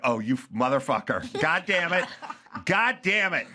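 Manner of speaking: mock outrage through laughter; laughing mock fury; laughing curse. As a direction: curse while laughing at yourself. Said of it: "And I'm like".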